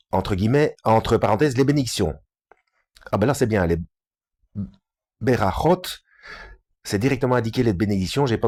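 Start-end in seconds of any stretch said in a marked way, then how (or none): 0.1-2.2 measured read-aloud of a scholarly book. Real, not acted. Reading a Talmud book aloud to listeners, measured delivery. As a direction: read out the chapter clearly, phrase by phrase.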